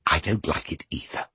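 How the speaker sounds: hushed soft aside; whispered. A narrator's reading. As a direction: whisper it confidentially. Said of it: "whispered Orpheus".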